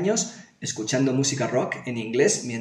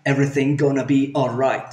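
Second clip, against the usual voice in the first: loose American English, run together; American accent. Shown as a demonstration. English teacher shows the colloquial version, American accent. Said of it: "Un poco americana".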